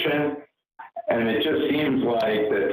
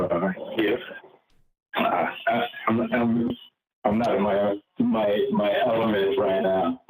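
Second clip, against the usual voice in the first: underwater. Real, not acted. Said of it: "the aliens got you in a spaceship".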